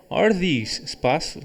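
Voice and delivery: "espaço" said with a rising question tune; question tune on blank. Shown as a demonstration. Teacher reading an exercise to the class, "espaço" rising like a question. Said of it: "coloquei entonação de interrogação no espaço".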